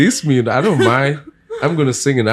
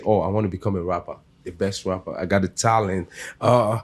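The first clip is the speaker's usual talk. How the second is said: wannabe rapper. Retold or imitated. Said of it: "there's one thing to say".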